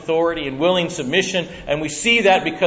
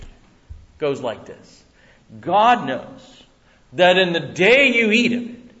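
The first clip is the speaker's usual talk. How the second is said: ordinary talk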